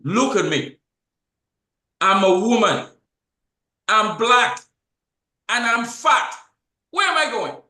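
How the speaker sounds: retold despair. Host voicing the bank woman's anguish, loud high cry. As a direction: cry out her despair, building to a high Where.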